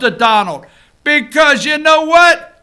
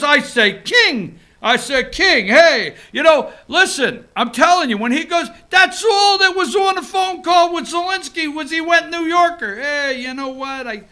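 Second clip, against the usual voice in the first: Trump going New Yorker. Retold or imitated. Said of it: "I love when Donald Trump goes New Yorker".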